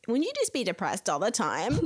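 lightly mocking questioner, laugh in the voice; everyone's imagined voice. Mocking people who ask about depression, lightly put-on voice. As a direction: gently mimic people's nosy questioning. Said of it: "that's how everyone speaks in my head".

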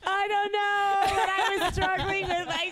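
very high whiny cartoon-kid voice; Cartman. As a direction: whine it like a cartoon brat. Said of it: "That's why you sounded like Cartman?".

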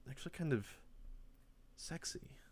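soft breathy whisper of the word; a teasing whisper about the alien; sultry whisper. Pretend. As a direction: let it slip out like a secret. Realizes alien is attractive.

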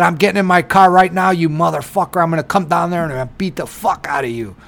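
heated retelling that speeds up at the end; retold yelling. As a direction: go off on him in a put-on rage. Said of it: "the way you were yelling at him".

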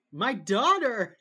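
very loud, high, drawn-out mock wail. Host mimicking the weeping woman's cry for her daughter, mock wailing. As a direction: wail it out slowly, hammed up. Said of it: "spends the whole episode crying".

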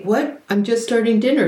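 high, baffled wife defending the time; baffled protest. Retold or imitated. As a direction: rise up in disbelief at the accusation.

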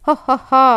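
smug fox laughing ho ho ho; a sneering ho-ho laugh; mocking laugh. A narrator's reading. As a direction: laugh at the fool's bark house. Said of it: "சிரிச்சுக்கிச்சு குள்ளநரி".

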